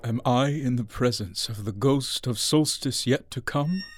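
low, hushed question; subdued, fearful reverence; awed dread. Acted. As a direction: speak softly before a fearsome spirit. Addressing the dreaded silent phantom.

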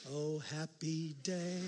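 very slow, laughing sarcastic sigh; mock joy over a dirty job; dry irony. Real, not acted. Ironic comment on gross task.

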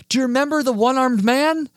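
high, loud eager fan question; imitating an overexcited fan; retold freak-out. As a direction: ask it bursting with excitement, as the fan. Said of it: "absolutely freaks out".

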